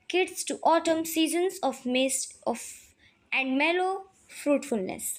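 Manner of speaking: slow, deliberate reading of notes; slow dictation reading. Acted. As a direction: read it out slowly so the class can copy. Reads English definitions slowly.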